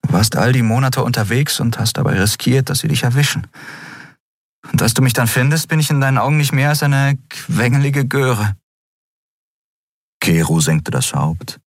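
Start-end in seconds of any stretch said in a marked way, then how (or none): 0.1-8.5 put-on a higher young woman, pleading; Endriel's voice. A narrator's reading. Endriel to Keru, higher pleading young voice. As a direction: rise up into her voice, earnest.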